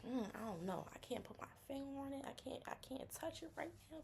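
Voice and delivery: high, hesitant musing; unsure friend. Retold or imitated. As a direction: fumble for words up high. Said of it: "They be like".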